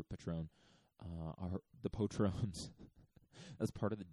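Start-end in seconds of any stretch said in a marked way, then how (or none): 0.0-0.5 "Patron" said "pa-TRONE", like the tequila; name-drop "Patron" as the tequila sponsor; "Patron" as "pa-TRONE" for a cheeky sponsor plug; tequila brand name. Shown as a demonstration. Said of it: "Shout out to our sponsor". 1.8-2.7 "patrons" said "po-TRONES" with a long O; deliberately mangle "patrons" like the tequila; "patrons" as "po-TRONES", a running sponsor gag; joke mispronunciation. Shown as a demonstration. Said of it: "I have to mispronounce that word".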